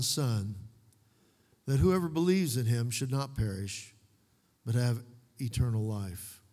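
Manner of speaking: measured Bible reading in phrases with pauses; scripture reading. Acted. Pastor reading scripture to the congregation, measured and solemn. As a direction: read the verses out deliberately, phrase by phrase.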